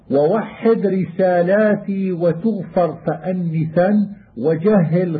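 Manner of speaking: measured chanted recitation of a teaching poem; verse recitation. Acted. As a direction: recite the verses slowly and evenly, like a student reciting. Chanting didactic verse lines. (إنشاد متن بتؤدة)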